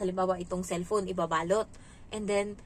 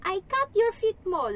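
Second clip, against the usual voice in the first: high, loud, slow mock-childish comeback; mocking child's taunt; 10 semitones higher, 6 dB louder, slower than usual. Nanny teasing the child back in his own voice, high and slow. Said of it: "gaganti ako".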